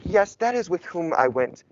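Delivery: mock-proper, carefully worded delivery; hypothetical rapper talking very properly; overly formal Future. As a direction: put on stiff formal speech, lightly. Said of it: "instead of, like, talking the way".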